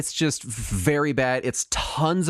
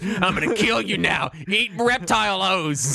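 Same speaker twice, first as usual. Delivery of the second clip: cereal mascot. Acted. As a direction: threaten like a cartoon cereal mascot. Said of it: "a cereal mascot".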